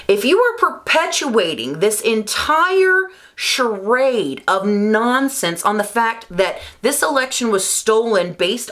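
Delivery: real exasperated rant, pitch jumping up; heated. Real, not acted. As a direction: demand an answer, heated and incredulous. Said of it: "I'm heated, guys. I'm sorry".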